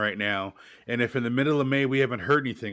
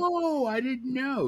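much higher, slow, wide-eyed whoa; mock surprise; 13 semitones higher, slower than usual. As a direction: play it as a goofy, innocent discovery. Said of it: "And I'm like".

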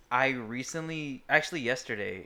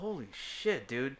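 mock British; 2 semitones higher, slower than usual. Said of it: "and you're like".

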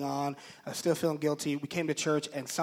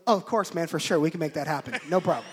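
casual, agreeable reply at usual pitch; easygoing cover-up; 4 dB louder, faster than usual. Retold or imitated. What came out to the caller, casually agreeable. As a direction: agree breezily, settling down from the outburst. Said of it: "What came out was".

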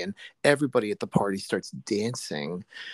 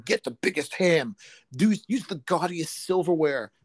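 higher, mocking proclamation, slowing at the end; mock zealous believers; 7 semitones higher than usual. Mimicking churchgoers urging a lavish feast, mock zeal. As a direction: imitate zealots, climbing higher on the last phrase. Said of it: "like you said about them saying".

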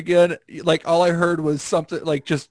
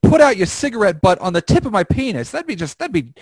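high sweet voice; 9 semitones higher, 4 dB louder than usual. Pretend. High mock sweet request.

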